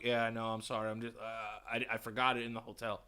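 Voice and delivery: retold meek, polite apology. Customer excusing himself to the store clerk, polite and soft. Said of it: "I'm really, really polite".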